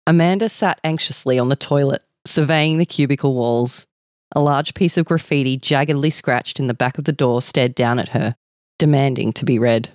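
measured story reading aloud; story narration. A narrator's reading. Reading a shortlisted story to listeners, measured narration.

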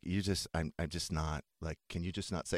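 creepy low murmur. Acted. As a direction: say it in a creepy hushed way. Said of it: "That's so creepy the way you say it".

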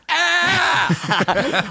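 short, very high comic scream; a panicked shriek, played for laughs; mock scream. Actor imitating his terrified character facing a bear, shrieking. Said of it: "my character in this moment is like".

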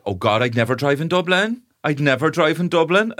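lightly mocking high voice; mocking rural locals. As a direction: mimic the hypocritical locals. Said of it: "cultures in Dublin are like".

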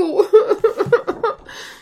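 laugh. Real, not acted. Reader laughs at Pinocchio's story.

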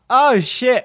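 realising the mistake all at once; caught out. Retold or imitated. Young worker realising the missing buns, shocked. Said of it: "It's like".

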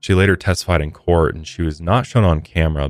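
measured podcast story read; true-crime narration. Real, not acted. Host recounting a shooting to listeners, measured narration. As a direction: read the case account clearly and evenly.

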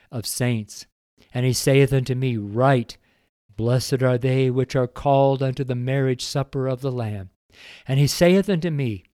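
scripture reading. Acted. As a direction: read the King James aloud like a preacher. Reads scripture aloud.

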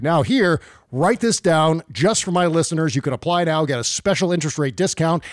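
upbeat host ad read. Acted. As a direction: sell it like a radio spot. Host reads sponsor ad.

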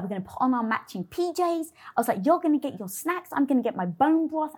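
excited plans. Retold or imitated. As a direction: sell the cozy night eagerly. Excited plan for cozy night.

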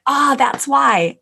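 sudden realization. Acted. Coach voicing a parent's discovery moment, mild dawning realization.

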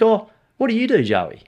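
high, loud mock players' voice; the players curiously asking the young coach. Voicing the players asking Joey.

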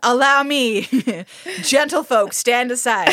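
mock-heroic gallantry. Plays gallant hero clearing crowd.

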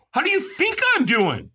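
hammed-up angry snap, pitched high; mock furious. Retelling his reply to the sponsor's morning call, mock angry. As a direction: play it pissed and shaky, half joking. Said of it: "I'm pissed".

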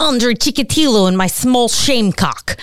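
thick put-on Eastern European accent; imitating a hammy Russian accent; fake Russian accent. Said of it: "I'll try to do my impression of Dan doing his fake impression".

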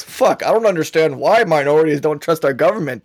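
dripping with mock disbelief; sarcastic. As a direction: say it sarcastically, pretending not to get it. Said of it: "portrayed enough in my voice".

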